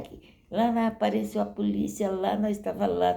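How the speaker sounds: put-on excited teen gossip. Friends recount police turning up at the dance, excited. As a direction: imitate girls chattering over each other.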